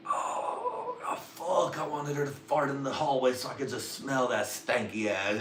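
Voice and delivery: high, breaking cry-like moan; mock longing.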